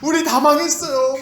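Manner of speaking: high, fast, exasperated outburst; angry disciples. Acted. Disciples scolding Jesus for sleeping, angry high wail. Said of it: "제자들이 막 화를 내는 거예요".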